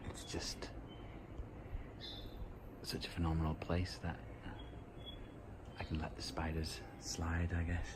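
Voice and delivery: soft unvoiced whisper, close to the mic; hushed whisper. Real, not acted. Filming the spider over the hot tub, hushed whisper. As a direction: keep it hushed so nobody is disturbed.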